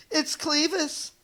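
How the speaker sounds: high panicked shout. Acted. Neighborhood animals shouting for help. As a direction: yell it out in alarm. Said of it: "they shouted".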